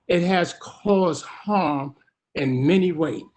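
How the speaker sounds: slow, choked-up testimony, holding back tears; getting emotional. Real, not acted. A former prisoner testifying to the commission, choking up with emotion. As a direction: voice catching as he describes the harm. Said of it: "I'm getting a little emotional".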